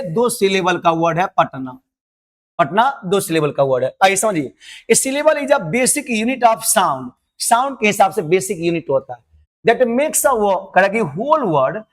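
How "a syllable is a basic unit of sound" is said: each word drawn out slowly for notes; slow dictation. Shown as a demonstration. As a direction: dictate it slowly so students can write. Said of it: "teacher dictating English definition".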